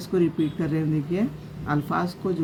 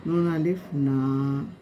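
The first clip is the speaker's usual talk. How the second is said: slow spelling; much slower than usual. Shown as a demonstration. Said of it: "जैसे जा होता है तो जा".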